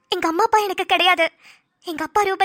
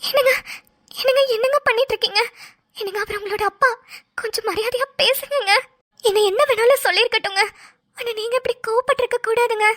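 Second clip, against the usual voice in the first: anxious pleading; 4 semitones higher than usual. Acted. Wife restrains angry husband.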